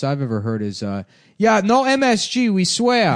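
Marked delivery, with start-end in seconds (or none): 1.4-3.2 high, loud put-on voice; mock restaurant owner. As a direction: squeak it out like a caricature.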